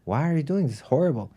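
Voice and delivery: acted-out exasperated reproach; mock scolding. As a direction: play a rabbi lightly scolding a farmer. Rabbi scolds farmer in retold story.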